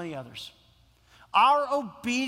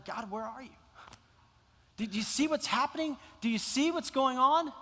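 pleading to God; 5 semitones higher than usual. Acted. Pleading prayer to God in sermon.

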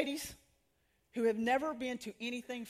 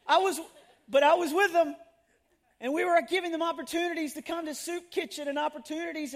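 still laughing; 4 semitones higher, 5 dB louder than usual. Real, not acted. Still laughing at her slip.

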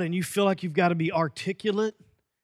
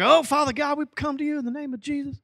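lightly voiced group prayer opener; praying group member; 6 semitones higher, faster than usual. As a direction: open a prayer like an eager church member. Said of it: "you're all like".

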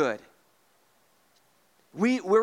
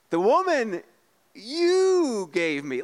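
higher, very slow whiny blame; mock Adam blame; 4 semitones higher, slower than usual. Pastor voicing Adam blaming God, high and whiny. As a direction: stretch out you gave me. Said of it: "He goes".

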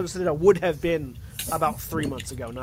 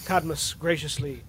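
Zeron, solemn blood hunter; 2 semitones lower, 3 dB quieter than usual. Acted. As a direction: weigh out each phrase like an ominous warning. Plays Zeron telling of his quarry.

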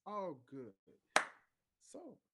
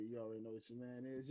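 usual speaking voice

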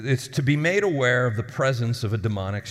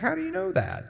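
high, amazed gasp of a question; a stunned woman's high question; astonished woman; 3 dB quieter than usual. Retold or imitated. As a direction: play her stunned disbelief. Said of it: "she's like".

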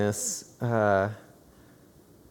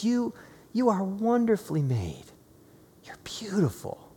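tender affirmation; 7 semitones higher, 3 dB quieter than usual. Retold or imitated. Father tells daughter God's words.

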